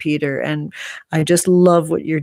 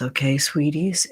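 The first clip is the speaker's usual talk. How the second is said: whispered endearment; 3 dB quieter than usual. Real, not acted. Tender sign-off to viewers.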